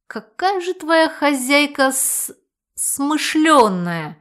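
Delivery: slow, dragged sarcastic praise; barely restrained sarcasm. Acted. Hero barely restrains himself with sarcasm about the mistress. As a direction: hold back the irritation, stretch it out. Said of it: "едва сдержавшись, рявкнул я".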